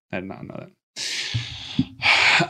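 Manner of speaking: slow, hushed whisper. Real, not acted. Amazed at the movie trivia, in a slow whisper. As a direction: breathe it out slowly in a whisper. Repeated remark, plain then hushed.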